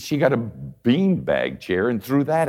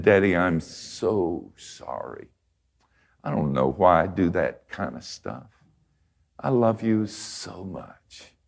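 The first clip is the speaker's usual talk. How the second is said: put-on contrite child; slower than usual. Daughter crawling into daddy's lap to apologize, slow and contrite. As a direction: say sorry to daddy tenderly and slowly.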